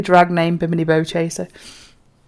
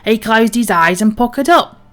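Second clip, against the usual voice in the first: hearty salty sea captain, a touch louder; pirate captain; 2 semitones lower, 6 dB louder than usual. Acted. Captain tells the crew a bawdy tale, hearty pirate voice. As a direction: boom it out like an old sea dog.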